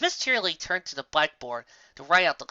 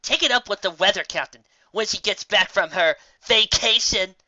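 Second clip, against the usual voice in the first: droning dismissal; 5 semitones higher, 7 dB louder than usual. Acted. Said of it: "Dad droned on".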